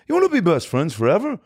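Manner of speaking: high, mock-chummy invitation; imagined singer. Imagines a famous singer asking to be friends.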